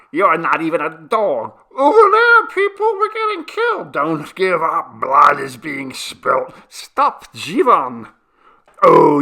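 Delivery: high, loud battle cries, peaking in a shriek; clamour of shouts. A narrator's reading. Many men shouting over gunfire, loud frantic hue. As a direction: yell a jumble of panicked and angry cries. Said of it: "All that could be heard was".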